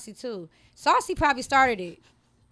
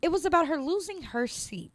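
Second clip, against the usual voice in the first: reporter voice; 5 semitones higher than usual. Acted. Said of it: "I wish I had my reporter voice".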